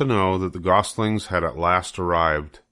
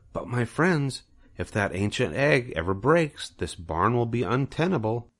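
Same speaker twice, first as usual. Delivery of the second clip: Charlotte the spider; 4 semitones higher, 3 dB quieter than usual. Acted. Charlotte speaks.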